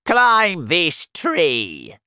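loud, very slow barked command; aunt ordering the boy up the tree; shouted order. Acted. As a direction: bark the order at James. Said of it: "she shouted".

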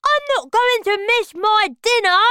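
high, loud greedy voice through food; mouth full. A narrator's reading. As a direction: keep chewing as you speak. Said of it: "speaking with his mouth full of banana".

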